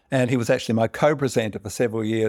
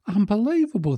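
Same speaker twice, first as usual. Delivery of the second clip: put-on drunk amazement; 10 semitones higher than usual. Drunk Irishman in bar joke.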